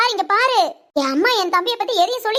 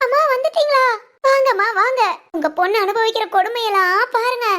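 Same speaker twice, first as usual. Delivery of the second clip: play-acted plaint to mother, higher at first; put-on distress; 3 semitones higher than usual. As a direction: complain theatrically like a wronged wife. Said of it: "என்னம்மா நடிக்கிறா". (நடிப்பாகப் புலம்பல்)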